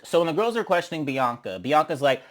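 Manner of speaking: ordinary delivery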